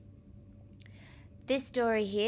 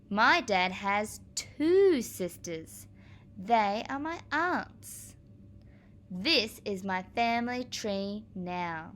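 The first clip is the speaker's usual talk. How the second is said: slow, careful picture-book read-aloud; reading to children; slower than usual. Acted. Teacher reading the aunts page slowly to her class. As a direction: spell out each page slowly for young ears.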